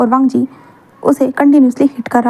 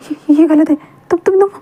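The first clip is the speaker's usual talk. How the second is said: rising panic; 4 semitones higher than usual. Acted. Wing protesting, rising panic.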